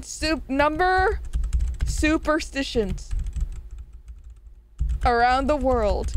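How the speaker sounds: slow words broken by hiccups. Real, not acted. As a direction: talk through hiccups. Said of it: "I'm hiccuping like crazy right now".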